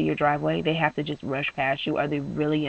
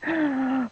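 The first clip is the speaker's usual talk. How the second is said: gasp; 8 semitones higher than usual. Retold or imitated. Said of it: "I start crying".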